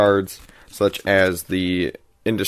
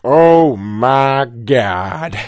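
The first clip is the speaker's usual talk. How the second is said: shocked medic; 4 dB louder, much slower than usual. Pretend. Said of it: "the medic gets out and says".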